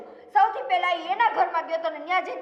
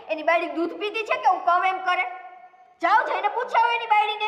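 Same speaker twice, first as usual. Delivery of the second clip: forceful defiance; 4 semitones higher than usual. Acted. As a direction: throw the challenge back at her. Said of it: "એ કેટલી પાવરથી વાત કરે છે".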